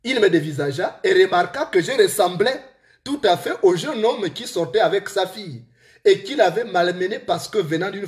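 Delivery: deliberate storytelling in a real Gabonese accent. Real, not acted. Author reads his book to listeners, Gabonese accent. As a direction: read aloud in a Gabonese accent, phrase by phrase. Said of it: "avec mon accent gabonais, mon accent de Manji".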